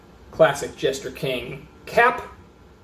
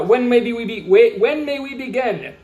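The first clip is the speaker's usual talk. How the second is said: mock German accent; 6 semitones higher than usual. The label's brewer asking to begin, higher mock German accent. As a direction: ask it in the pompous brewer's German accent again. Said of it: "imagine what accent that would sound like".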